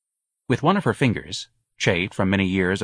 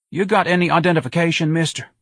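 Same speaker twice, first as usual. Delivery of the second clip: higher, officious policeman voice; higher-pitched, demanding street cop; suspicious policeman; 9 semitones higher, 4 dB louder than usual. A narrator's reading. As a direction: challenge him like a cop on the beat. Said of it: "in a voice that hoped that Ignatius was officially unidentified".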